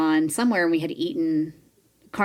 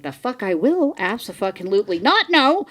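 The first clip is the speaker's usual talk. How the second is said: horrified refusal; 8 semitones higher than usual. Retold or imitated. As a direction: squeal it out like you're mortified. Acting her own horrified refusal.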